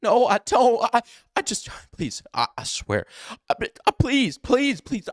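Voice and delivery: mock nervous pitch jumping up and down; high squeaky pleading. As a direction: imitate a guilty suspect begging in squeaks. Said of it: "pitch in his voice gets suddenly very high and squeaky".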